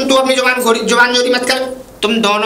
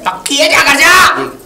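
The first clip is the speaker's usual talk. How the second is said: raised, louder send-off; impatient dismissal; 4 semitones higher, 5 dB louder, slower than usual. Acted. Elder ordering the man home, loud and impatient. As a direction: send him off firmly, voice lifted.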